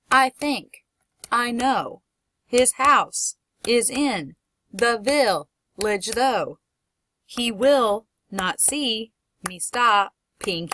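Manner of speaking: slow verse chopped into pairs of syllables, a pause after each; two-syllable feet. Shown as a demonstration. Teacher shows class the feet in a verse, slow segmented reading. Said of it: "each line is separated into little two-syllable segments".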